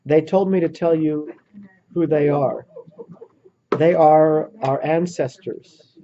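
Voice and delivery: measured, halting imitation of a man deeply moved; slow, weighty retelling. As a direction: quote it slowly, with long pauses between phrases. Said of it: "slowly he looks up and he says".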